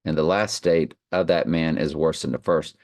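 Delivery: measured Bible reading voice; scripture reading. Acted. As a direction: read the verses with solemn weight. Reads scripture aloud.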